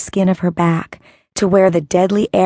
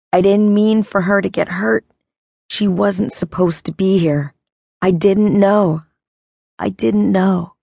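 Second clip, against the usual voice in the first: cracked voice. Acted. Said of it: "His voice came out cracked and twisted".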